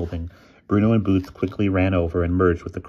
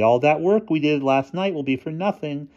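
lightly upbeat, higher-pitched; cheerful; 9 semitones higher than usual. A narrator's reading. Boy persuades friends to join tonight, mildly cheerful. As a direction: keep it breezy and pitched up. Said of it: "responded Bruno cheerfully".

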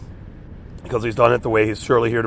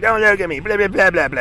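much higher mocking rant; mock freak out; 8 semitones higher than usual. Mocking the rabid stranger's freak out, much higher. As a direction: squeal out the other man's rant.

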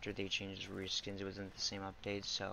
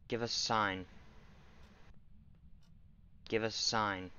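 talking to a ghost. Real, not acted. Calling out to ghost.

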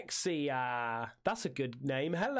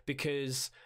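drawn out; 2 semitones lower than usual. Acted. Drawn out emphasis.

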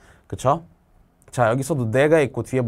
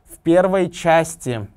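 части stressed on first syllable ча; slow, with a strong full a in части; front stress; 3 semitones higher, 3 dB louder, much slower than usual. Shown as a demonstration. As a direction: lean hard on ча in части. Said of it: "앞에 아로 가죠".

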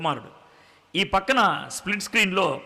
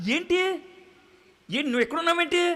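much higher, startled what?; shocked question; 10 semitones higher, faster than usual. Acted. Reporter stunned to find the son among pigs, shocked. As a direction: jump up in pitch, caught off guard.

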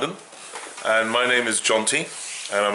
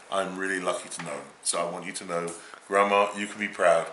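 softer, heartfelt words to the grandma; sincere praise; 2 semitones lower, 4 dB quieter than usual. Real, not acted. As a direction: say it quietly, meaning every word. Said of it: "How sweet".

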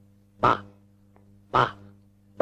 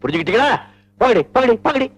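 angry scolding. Acted. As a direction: bark at the girls to come here. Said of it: "இது நிஜமான கோபமா இல்ல எனக்காக நடிக்கிறீங்களா".

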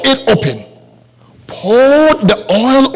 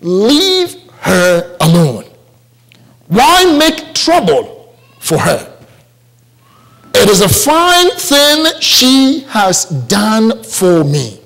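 Jesus speaking. Acted. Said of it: "Let me repeat".

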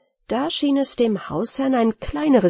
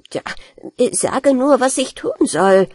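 conceited; 4 semitones higher than usual. Acted. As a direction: puff yourself up, confident. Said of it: "die schon wieder ganz eingebildet wurde".

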